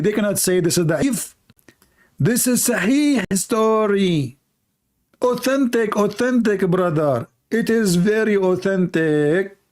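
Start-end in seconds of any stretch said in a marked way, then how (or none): 2.2-9.6 mock insistence. Mocking insistence that story is authentic.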